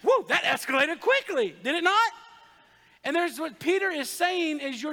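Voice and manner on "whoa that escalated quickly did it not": mock surprise. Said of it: "you're like".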